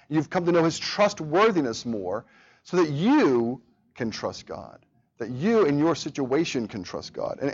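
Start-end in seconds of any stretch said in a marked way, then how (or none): 2.6-4.8 slow delivery, "you" held long and prominent; single out the listener with a drawn-out "you"; stress on YOU. Shown as a demonstration. Preacher applying the study to each listener, stress on "you". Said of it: "but the emphasis on the word".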